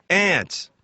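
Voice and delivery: high, mild mock scream; a retold yelp with falling pitch; imitating screaming madman. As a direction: imitate a street crazy crying out. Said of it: "He's screaming".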